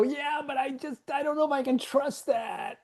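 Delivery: high, soft, unsure put-on voice; doubting self. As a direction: pipe up small and unsure. Doubtful self answering inner voice.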